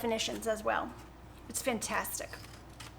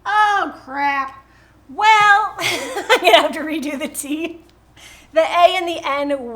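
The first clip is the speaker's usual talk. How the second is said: loud, high, laughing through it; cracking up at her own mistake; laughing dismay; 3 semitones higher, 9 dB louder, slower than usual. Real, not acted. Vlogger to viewers, laughing loudly at her spelling blunder.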